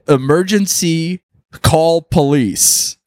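slow, spaced-out sign reading; bus sign readout. Retold or imitated. Comic reading out a bus's alert sign, slow and deliberate. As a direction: read each word out slowly like a display. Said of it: "this one just said".

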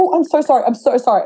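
a sheepish apology after a punch; mock apology. Apologising after hitting sparring partner.

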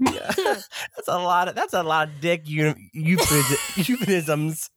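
stumbling, choking through laughs; choking on laughter. Real, not acted. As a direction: fight through a laughing fit.

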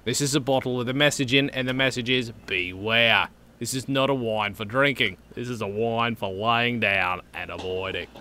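deadpan comedy sketch reading; Monty Python quote. Retold or imitated. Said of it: "I almost quoted Monty Python".

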